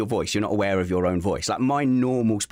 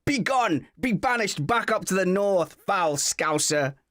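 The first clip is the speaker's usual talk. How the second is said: high-pitched, hammed-up banishing cry; theatrical revulsion; 10 semitones higher, slower than usual. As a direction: cast out a foul intruder in mock horror. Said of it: "like nails on a chalkboard".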